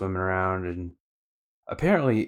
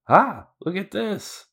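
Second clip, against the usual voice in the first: much higher, slow goofy voice; 12 semitones higher, 3 dB louder, slower than usual. Retold or imitated. Luffy showing off his shark teeth, goofy high voice. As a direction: show off the teeth in a silly high voice. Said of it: "He's like".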